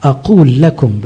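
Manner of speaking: insist, leaning on each word; insistent. Retold or imitated. Priest voices Christ's warning with full insistence. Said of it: "بمنتهى الإصرار".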